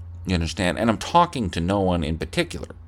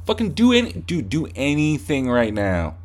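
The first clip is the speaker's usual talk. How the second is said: much higher, challenging yell; acted fight taunt; 4 semitones higher than usual. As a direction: dare him to act.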